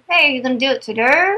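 quick, impatient nudge at husband; mock impatient. To husband Stanley who hasn't Googled yet, quick impatient prod. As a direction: hurry him along with mild irritation. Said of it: "I'm getting aggravated".

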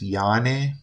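Yane said as yah-neh with a Y sound; pronouncing a name. Shown as a demonstration. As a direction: say Yane with Y like an Italian long I. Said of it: "would be pronounced".

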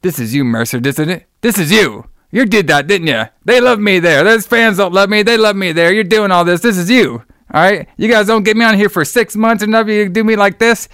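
jab the blame at the announcer; angry promo rant. Retold or imitated. Percy Pringle yells at the interviewer, mock angry rant. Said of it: "Percy's like".

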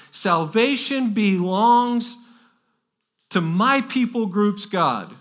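preacher's loud, drawn-out proclamation; loud cry. Retold or imitated. Preacher quoting the multitude before the throne, loud cry. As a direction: cry it out high and loud to a crowd. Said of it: "they cried out in a loud voice".

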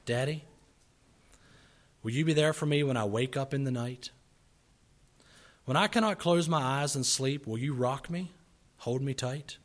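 earnest, pleading recitation with rising swells; heartfelt poem reading. Acted. Preacher reads a little boy's plea to fathers, heartfelt. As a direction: read it as a child's plea to a father.

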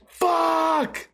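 high, drawn-out cry of a curse; high pained swear. Retold or imitated. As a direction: groan it out in pain. Retelling reaction to burnt hand.

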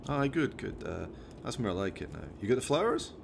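lightly voiced Scottish mate telling off his chimp; a hint of a Scottish lad; Jones, exasperated driver.

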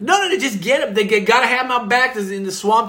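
lightly played Southern good old boy; pushy Southern customer. New Orleans boy demanding crawdads from waitress, pushy. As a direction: insist casually as a country customer. Plays Jovi ordering.

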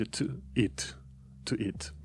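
"to eat" șoptit, "o" redus; șoptește "to eat" scurt. Shown as a demonstration. ("to eat" în șoaptă)

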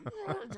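soft, very high-pitched mock giggle; imitated helpless giggle. Dad mimics Riley unable to stop laughing, high helpless giggle. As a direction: giggle like someone who can't get it out. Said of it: "she can't stop laughing".

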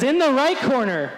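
announcer introducing a fighter to the crowd; ring announcer. Retold or imitated. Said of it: "Bruce Buffer is getting the crowd pumped up".

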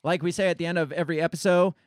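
talking too fast, words tumbling out; hurried sign-off line; rushed. Real, not acted. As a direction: rattle off the catchphrase in a hurry. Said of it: "I'm talking too fast".

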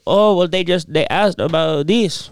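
halting mock Hispanic-accented English. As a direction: play the deli worker with a hint of a Hispanic accent. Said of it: "he had an accent".

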